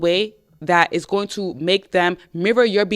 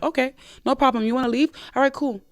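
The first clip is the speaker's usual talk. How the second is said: higher, breezy don't-care voice; nonchalant; 6 semitones higher, faster than usual. Shown as a demonstration. Woman brushing off her leaving boyfriend, breezy and nonchalant. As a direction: shrug it off lightly. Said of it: "act non-, nonchalant".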